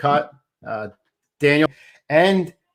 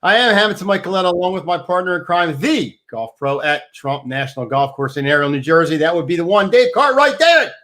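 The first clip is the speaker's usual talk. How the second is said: punchy, raised host intro, building to the co-host's name; show-opening announcer; 4 semitones higher than usual. Acted. Host welcomes listeners and introduces the partner in crime, announcer style. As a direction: open the show big, lifting the name at the end.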